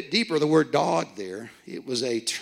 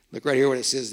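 ordinary talk, nothing marked

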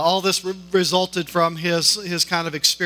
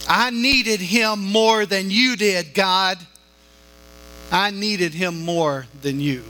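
defiant cry; 2 semitones higher, slower than usual. Retold or imitated. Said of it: "looks up defiantly toward the heavens".

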